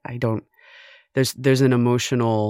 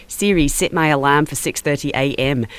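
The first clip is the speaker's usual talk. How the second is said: put-on Australian accent; 4 dB louder than usual. Caller asking Siri to set an alarm, Australian accent. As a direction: attempt an Australian accent on a command. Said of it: "I have to ask her in an Australian accent".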